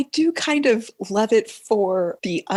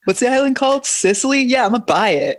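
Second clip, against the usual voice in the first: put-on higher, bratty rich teen voice; mocking teen impression; 4 semitones higher, faster than usual. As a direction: brag like a spoiled teenager. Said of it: "my impression of a teenager".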